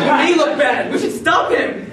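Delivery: high, laughing dad voice; laughing punchline. Retold or imitated. Dad joking back about the twin, laughing. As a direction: crack up delivering it. Dad's joke reply, laughing.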